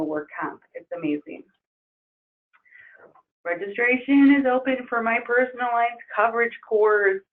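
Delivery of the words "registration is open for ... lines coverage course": hoarse, strained voice; losing voice. Real, not acted. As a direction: push through a tired, hoarse throat. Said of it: "I'm losing my voice".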